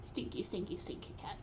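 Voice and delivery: soft teasing whisper to cat. Real, not acted. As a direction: breathe it playfully.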